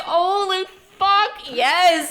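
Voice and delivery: high, loud, slow whoop; excited cheering. Retold or imitated. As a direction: cheer like a thrilled kid. Kid cheering at the TV.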